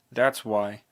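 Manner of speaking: loud sudden outburst; scream. A narrator's reading. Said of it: "Anyway, I screamed".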